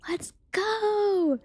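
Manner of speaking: high whispered let's go; whispered cheer. Real, not acted. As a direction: cheer without waking anyone. Celebrating good news.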